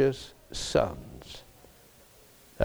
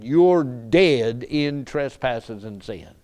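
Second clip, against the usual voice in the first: ordinary talk, nothing marked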